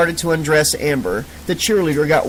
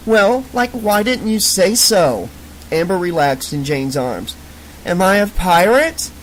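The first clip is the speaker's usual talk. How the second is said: put-on ditzy drunk girl; 4 semitones higher than usual. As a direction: go suddenly cheerful and clueless. Drunk character cheerful.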